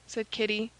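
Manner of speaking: usual speaking voice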